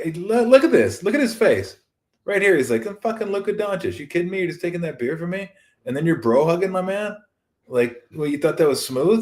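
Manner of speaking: incredulous Luka. Retold or imitated.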